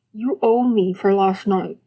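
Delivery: mumbling through toothpaste foam; mouth full. Acted. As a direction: talk round a mouthful. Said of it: "he mumbled, mouth foaming".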